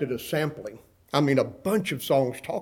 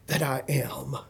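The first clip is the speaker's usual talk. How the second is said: high drawn-out "Oh", then slow lament; anguished cry; 3 semitones higher, much slower than usual. Acted. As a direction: cry out as Paul, stretching each word in torment. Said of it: "And he cries out".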